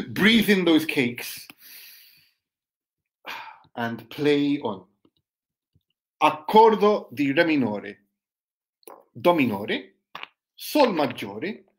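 slow recital with long pauses; name each chord separately, letting it hang; poem reading. Acted. Poet calling out chords before Franco comes in, poem reading.

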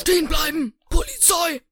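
barking like a cop; police shout. Pretend. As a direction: Polizist ruft laut. Boys voice a cop catching them. (Polizist ruft laut)

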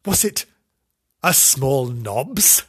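slow drawn-out question; slow rising wonder. Acted. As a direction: stretch it out puzzled.

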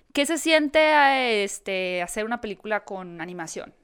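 lightly mock interviewer, very slow; slow drawn-out interviewer question. Reporter asking Christoph Waltz, slow mock drawl. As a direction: stretch it out like a cheesy interviewer. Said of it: "Algo así como".

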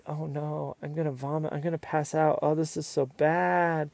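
softly hammed-up distress, dragging out the end; mock dramatic. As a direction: imitate a drama queen's woe, lightly. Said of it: "then Whitney gets all dramatic".

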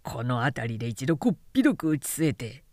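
low, threatening samurai voice; menacing young samurai. Acted. Samurai proposing to his friends a beating, low and menacing. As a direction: plot a beating with relish.

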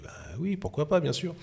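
high, quick eager agreement; eager yes. Retold or imitated. Photographer eagerly accepting the editor's offer, high eager yes. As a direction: jump at the offer, pitch up high.

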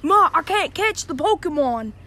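a hint of a dopey Aussie mate; stoned guy voice. Joke teller voices the high man spotting a cat. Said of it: "and he's like".

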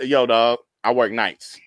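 low, hurried brush-off; offhand excuse. Acted. Stripper covering up his night job to friends, offhand excuse. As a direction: rattle off a low-pitched, casual excuse.

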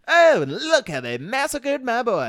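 slow, raspy Godfather mobster voice; Godfather impression. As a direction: mourn it like the old don. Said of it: "he does all the Godfather quotes".

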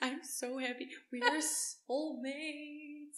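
mock tender. Mock-sentimental bonding over shared shame.

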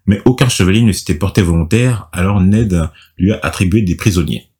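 measured storytelling read; scripted recap narration. A narrator's reading. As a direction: read the recap aloud with deliberate phrasing.

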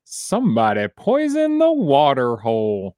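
cowboy doll voice, Tom Hanks style; lightly voiced pull-string cowboy toy. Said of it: "my Tom Hanks impression".

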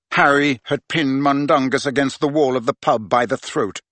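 ordinary delivery, nothing marked

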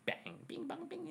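high, soft clanging noises; playful sing-song bangs and bongs; imitated metal clanging. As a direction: mimic hammer on metal in a high, light voice. Imitating metal being banged.

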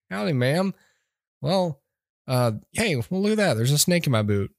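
lightly voiced hokey cowboy; a hint of folksy Woody; mock cowboy drawl. Host parodying Chris Pratt as Woody, lightly voiced. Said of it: "Midwestern accent he has".

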